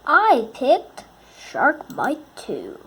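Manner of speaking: loud, slow game reveal; excited announcement. Real, not acted. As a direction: drag it out like a big reveal.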